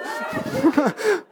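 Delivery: sheepish real giggle; high embarrassed laugh. Real, not acted. Laughs at himself.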